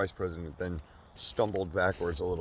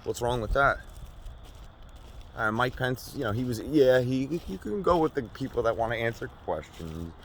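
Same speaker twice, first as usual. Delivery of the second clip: mock-outraged defense of the guy; heated rant; 4 semitones higher than usual. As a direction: build into a shouting defense. Escalating comic rant.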